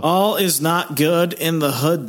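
sing-song wise remark; mock solemn quip; playful catchphrase. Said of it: "playful catchphrase".

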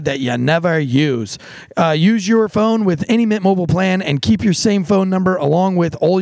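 casual host-read sponsor ad. Acted. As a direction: sell the deal, upbeat.

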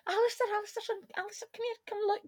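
high, eager call across the room; an aunt calling her nephew over, thrilled and high; excited calling out. Acted. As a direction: urgently wave him over with your voice.

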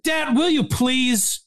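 high, begging fan voice, slowing on will you please; mock pleading audience. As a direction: plead like a fan desperate for the mom bit. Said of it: "as if we're gonna go".

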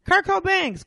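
high, loud, a singer's name said co-BANGS; a rapper's name. Pretend. Customer and clerk mix-up replayed, insistently saying the name as co-BANGS. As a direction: insist on the name rhyming with fangs. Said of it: "musical version of Who's on First".

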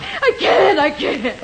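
high cry turning into a broken laugh; losing control mid-sentence; hysterical. Acted. Wife breaks down in argument.

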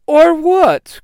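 high, loud taunt; mocking, amused. A narrator's reading. Korgon defying the Red Ranger, loud high taunt. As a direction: throw it back as a jeering challenge. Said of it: "Korgon says with a laugh".

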